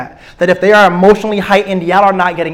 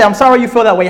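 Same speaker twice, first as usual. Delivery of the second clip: mocking quote; 3 semitones higher, faster than usual. Shown as a demonstration. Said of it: "if I say".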